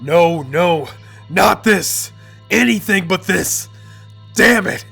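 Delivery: a touch of a panicked yell; mild mock scream of despair. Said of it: "Ramon starts screaming".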